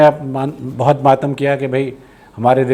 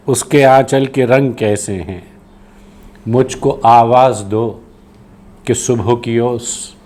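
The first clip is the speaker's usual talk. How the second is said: poetry recitation; slower than usual. Acted. Poet asking if morning dew remembers him, slow recitation. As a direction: stretch the phrases, sinking into the final refrain.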